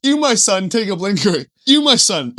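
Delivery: hint of a loud proclamation to each follower; mock solemn blessing. Acting out handing each lion a hit.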